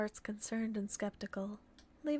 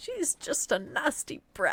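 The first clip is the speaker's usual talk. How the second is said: put-on loud, high, grumpy old-woman voice; 5 semitones higher, 6 dB louder than usual. Reading a line aloud as requested, in a grumpy grandma voice. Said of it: "Read this in a grumpy grandma voice".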